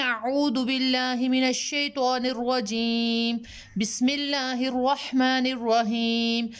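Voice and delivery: slow, chanted Arabic recitation; Quranic recitation. Acted. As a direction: recite it slowly like a prayer. Recites opening prayer slowly. (धीमी, सुरीली क़ुरआनी तिलावत)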